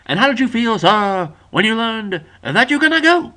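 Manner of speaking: cross-examine in a hammed-up Southern accent; deep Southern lawyer. Friend playing a Southern lawyer questioning a witness, deep Southern. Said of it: "imagine a Southern lawyer, very very deeply Southern".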